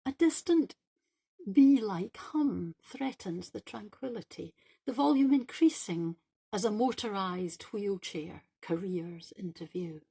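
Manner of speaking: measured literary reading with deliberate pauses between phrases; monologue reading. Acted. Writer reads their short New Normal monologue to listeners, measured recital. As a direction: read it as a performed monologue, phrase by phrase.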